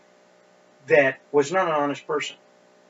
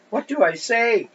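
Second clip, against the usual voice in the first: higher, louder mock-helpless plea; lightly voiced bewildered husband, pitched up; 9 semitones higher, 6 dB louder than usual. Poor guy standing there by his wife, mock helplessness.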